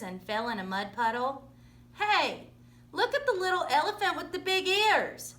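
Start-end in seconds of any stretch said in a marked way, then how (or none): 1.9-5.3 mild shout. Acted. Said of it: "shouted a boy".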